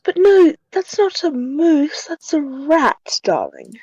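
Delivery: haughty character voice. Acted. Character corrects in put-on voice.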